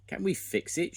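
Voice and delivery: high, loud rallying call; shouted question. A narrator's reading. Scoop shouting to the team, high and loud. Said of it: "shouted Scoop".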